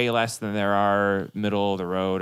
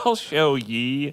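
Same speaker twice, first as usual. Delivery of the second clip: slow stiff robot voice; 2 semitones higher, much slower than usual. Retold or imitated. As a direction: say it like a clunky robot. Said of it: "trying to talk like a robot".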